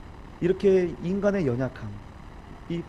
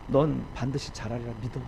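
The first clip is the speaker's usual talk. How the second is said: consoling; 5 semitones lower, 3 dB quieter than usual. Acted. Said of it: "마음의 위로를 받는".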